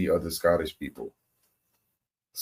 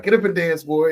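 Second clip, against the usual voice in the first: mock parent; 8 semitones higher, 5 dB louder than usual. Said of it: "our parents be like".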